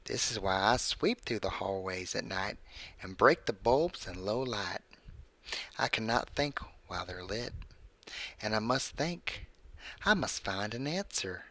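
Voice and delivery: creepy story read in a put-on voice; measured narration with swooping pitch and pauses; Burt's Bees. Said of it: "I'm reading this in my Burt's Bees voice".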